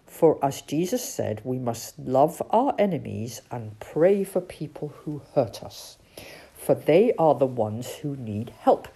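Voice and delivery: low, gentle teaching owl; wise old owl. Acted. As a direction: preach kindly like an old owl. Owl's voice.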